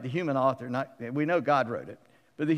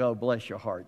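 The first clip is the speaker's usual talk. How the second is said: Southern; 5 semitones lower than usual. Retold or imitated. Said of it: "anybody from the South".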